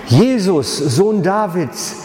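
langsam, hoch gerufener Hilferuf; Rufen. Retold or imitated. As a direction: ruf flehend über die Menge hinweg. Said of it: "Da fing er an zu rufen". (laut flehend rufen, langsam)

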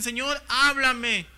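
mock plea, stretched and forceful; pleading cry. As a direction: call out to God, imitating a pleading believer. Acting believers crying out to God.

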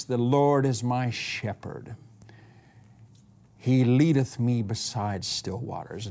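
slow, carefully measured scripture reading; polished recitation. Retold or imitated. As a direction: read the psalm like a skilled young orator, a little showy. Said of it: "he said this thing so perfectly".

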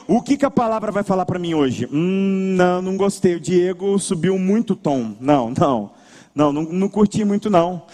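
picky churchgoer. Acted. Churchgoers judging the service like customers, picky low grumble. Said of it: "as pessoas entram nos cultos e elas ficam".

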